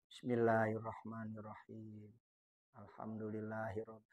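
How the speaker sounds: low, quiet murmured recitation; soft recitation demo. Shown as a demonstration. Teacher reciting Fatihah softly for students. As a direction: recite softly so only you hear it. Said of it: "Hurufnya mesti kedengeran".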